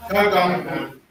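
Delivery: Tagang Hu said slowly, each syllable clear; teacher models Tagang Hu for the class; model pronunciation. Shown as a demonstration. Teacher to class, modelling Tagang Hu clearly. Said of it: "You just say Tagang Hu".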